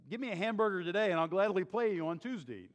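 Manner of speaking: a hint of the cartoon moocher begging; Wimpy impression. Preacher quoting Wimpy to a congregation, light quick impression. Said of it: "you know, wimpy".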